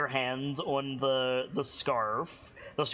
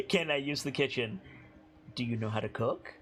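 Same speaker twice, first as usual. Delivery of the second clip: stern matron tone; 3 semitones lower, faster than usual. Acted. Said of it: "I can do the tone".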